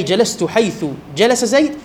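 "حيث" said as haytha; a vowel closing "حيث"; fatha on حيث. Shown as a demonstration. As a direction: end "حيث" with a short a. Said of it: "وحيث بالفتح".

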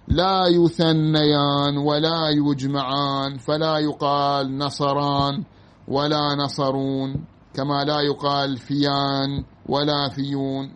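slow, level formal recitation; measured Arabic dictation voice; reading a textbook aloud. Real, not acted. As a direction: stretch out each word of the written rule. Reads the grammar text aloud.

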